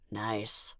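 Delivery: a quiet, understated compliment; smoothly. Acted. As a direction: humor the child with a smooth word. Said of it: "the chief said smoothly".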